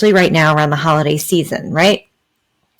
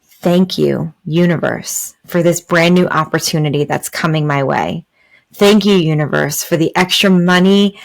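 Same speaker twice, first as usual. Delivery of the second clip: grateful. Shown as a demonstration. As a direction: thank the universe as if it has already arrived. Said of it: "Do you see the difference there?".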